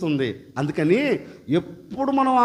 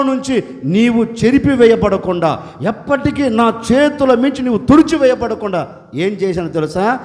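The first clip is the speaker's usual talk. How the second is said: tender Jesus; 5 dB louder than usual. Acted. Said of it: "యేసయ్య ఒక్క మాట అంటున్నాడు".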